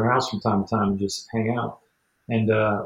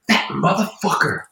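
higher, louder mock outrage; hammed-up indignant friend; imitating angry rant; 11 semitones higher, 5 dB louder than usual. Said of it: "he's getting really mad".

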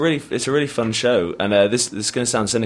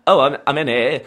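flustered chatty comic voice; a hint of a panicky Alan Carr; Alan Carr impression; 2 semitones higher than usual. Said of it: "Alan Carr".

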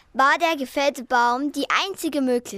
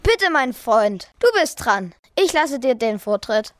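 Eisenmann; 2 semitones lower, 4 dB louder than usual. Acted. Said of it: "sagte der Eisenmann zum Löwen".

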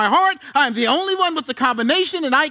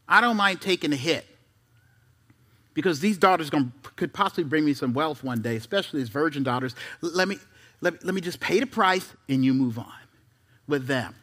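mock self-righteous Lot; 11 semitones lower, 6 dB quieter than usual. Preacher voices Lot's thoughts.

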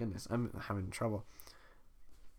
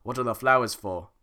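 redo of the line; 6 dB louder than usual. Acted. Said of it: "That sounded like an old guy".

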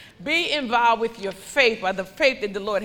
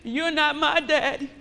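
put-on little girl; 4 semitones higher than usual. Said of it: "The little girl said".

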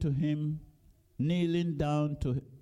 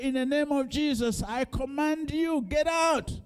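commanding rebuke; 9 semitones higher than usual. Pretend. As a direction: cast it out with full force. Preacher acting out commanding a demon.

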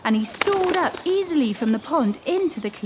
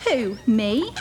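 surprised duckling; 6 semitones higher, slower than usual. Acted. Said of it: "said the ugly duckling".

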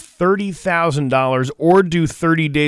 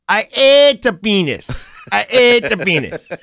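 Jamaican accent; 8 semitones higher, 4 dB louder than usual. Shown as a demonstration. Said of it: "say it with a, like, a Jamaican voice".

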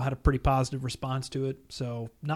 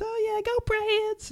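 slow, high East Tennessee cheer; East Tennessee accent; much slower than usual. Retold or imitated. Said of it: "Your, your East Tennessee accent's pretty good".

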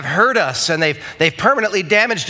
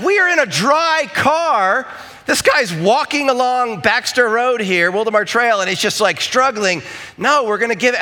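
exasperated dad; 5 semitones higher than usual. Retold or imitated. Dad in the car insisting to his kids, heated and high.

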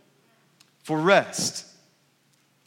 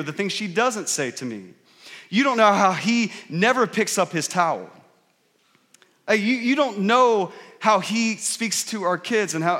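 hammed-up aggrieved spouse; mock spouse complaint; 2 semitones higher than usual. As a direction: vent indignantly about your spouse.

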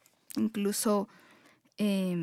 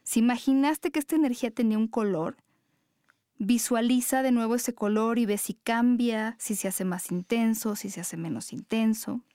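guided meditation. Acted. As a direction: guide them gently into their breath.

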